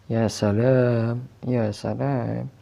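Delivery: slow, drawn-out mock admiration; sarcastic drawl. Real, not acted. Gamer mocking the game's trick, slow sarcasm. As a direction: stretch it out with dry sarcasm.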